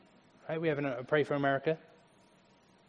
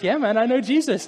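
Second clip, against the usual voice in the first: loud laughing reply; excited laughing shout; 9 semitones higher, 7 dB louder than usual. Retold or imitated. Joyful answer in imagined reunion.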